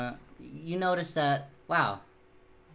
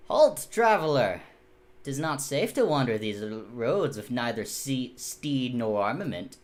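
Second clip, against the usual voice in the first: archaic knight; 3 semitones lower, 6 dB louder than usual. Acted. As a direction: declaim it like an over-formal knight, loud at first. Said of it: "why are you talking like that?".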